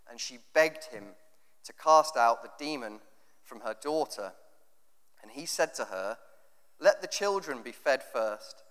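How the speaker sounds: measured, even Bible reading voice; scripture reading. Acted. Preacher reading the Gospel passage to the church, measured and steady. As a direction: read the passage steadily to the congregation.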